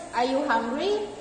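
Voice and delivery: "hungry" ends on a rise; rising intonation. Shown as a demonstration. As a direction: question tune rising on "hungry". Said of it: "the second one is rising intonation".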